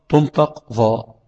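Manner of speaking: slow ضاء with the tongue between the teeth; wrong dad as dha. Shown as a demonstration. Teacher showing students the wrong ضاد. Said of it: "مفيش أي قراءة".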